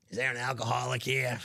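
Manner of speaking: repeating the prank line, calmer; prank caller voice. Shown as a demonstration. Host repeats the customer's prank line, muted. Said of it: "that hurts my voice doing that".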